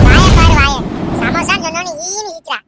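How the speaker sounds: loud teasing shout; mocking exclaim. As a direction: crow at her grin. Mocking the girl's grin.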